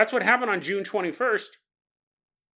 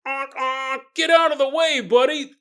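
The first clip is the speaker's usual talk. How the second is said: mock driver yell; 5 semitones higher, 4 dB louder than usual. Driver honking and yelling.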